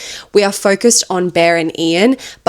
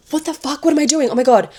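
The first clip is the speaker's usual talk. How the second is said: startled snap back; 8 semitones higher, faster than usual. Retold or imitated. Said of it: "She snaps back to reality for a second".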